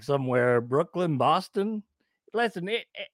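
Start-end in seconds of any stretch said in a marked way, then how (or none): 2.3-3.1 higher, huffy character voice; put-on indignant complainer; irritated character Dubs. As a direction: argue back in a raised pitch. Plays offended Dubs character.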